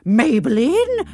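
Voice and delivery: slow, high, loud startled question; surprised. Acted. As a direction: gasp her name in disbelief. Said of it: "I said, surprised".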